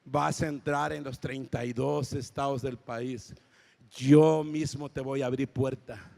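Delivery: empieza grave y crece a proclamación; voz de Dios. Retold or imitated. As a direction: promesa divina que va creciendo hasta el grito. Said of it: "Dios me dijo". (de grave y solemne a proclamación fuerte)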